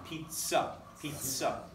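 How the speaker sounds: "Pizza" with the ts sound stressed. Shown as a demonstration. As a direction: lean on the tz in "Pizza". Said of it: "say the word pizza".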